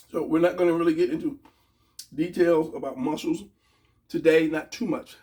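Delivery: talking around ice in the mouth. Real, not acted. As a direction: speak with ice on the tongue. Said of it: "So I, ice in my mouth".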